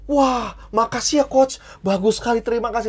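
nada tinggi, berterima kasih penuh kagum; imitasi peserta kagum. Retold or imitated. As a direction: tirukan peserta yang terkesan, suara naik. Peserta berterima kasih kepada pelatih. (meniru peserta terkagum-kagum)

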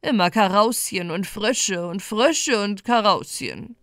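lightly voiced pike, eager and nasal; a hint of a hungry, nasal creature. Pike muses on new food from the flood, lightly nasal. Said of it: "näselte eifrig".

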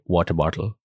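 lightly Indian-accented pronunciation; low-pitched Indian-accented demonstration. Shown as a demonstration. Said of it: "That sounds Indian as hell".

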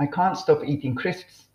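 measured British-English pronunciation, "can't" with a long ah; British English model. Shown as a demonstration. Teacher models today's phrase for listeners, slow British pronunciation. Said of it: "英語の発音の練習に".

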